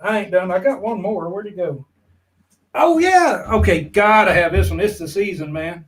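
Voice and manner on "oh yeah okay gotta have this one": excited shout. Real, not acted. Showing off another hat.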